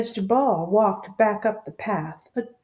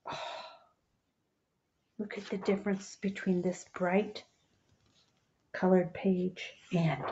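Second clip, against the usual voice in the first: hushed and sad; 5 dB quieter than usual. Real, not acted. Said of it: "helping us feel those feelings".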